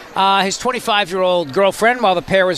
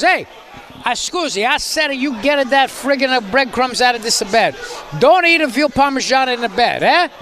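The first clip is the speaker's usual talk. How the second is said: Italian wife; 6 semitones higher than usual. Pretend. Host acting an Italian wife scolding her husband, hammed-up Italian accent. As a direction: ham up an angry Italian wife over breadcrumbs. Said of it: "the wife gets upset and goes".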